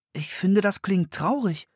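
high little-sister voice, a hint of sadness; gently pitying; Anne's voice. A narrator's reading. Anne findet es traurig. (hohe Mädchenstimme, leicht traurig)

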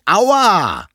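high, loud drawn-out wail of pain; pained cry. A narrator's reading. Hedgehog cries out after losing his spines, loud pained wail. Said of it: "rief der Igel".

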